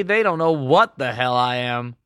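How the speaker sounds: ordinary delivery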